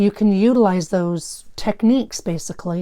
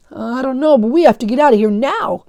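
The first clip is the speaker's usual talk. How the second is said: urgent; 5 semitones higher, 6 dB louder than usual. Acted. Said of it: "Phil replied".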